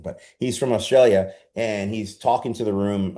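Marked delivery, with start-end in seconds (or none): 0.4-1.3 a light, hammed-up Australian accent on "Australia"; lightly faked Australian twang; bad Australian accent. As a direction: say it like a mock Aussie, a bit louder. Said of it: "I'll give you my really bad Australian accent".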